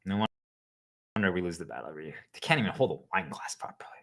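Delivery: whispered under the breath; whispered aside. Acted. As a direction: mutter it so they don't hear. Muttered aside about the team.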